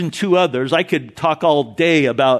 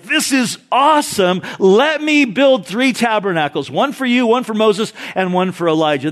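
high, eager burst of delight; excited Peter; 5 semitones higher than usual. Retold or imitated. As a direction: bubble over like a thrilled disciple. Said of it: "Peter got excited".

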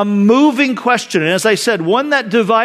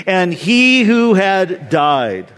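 slow reading; much slower than usual. Shown as a demonstration. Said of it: "Read that with me".

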